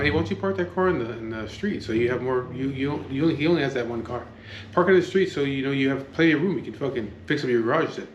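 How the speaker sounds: badgering the neighbor to park on the street; exasperated retort.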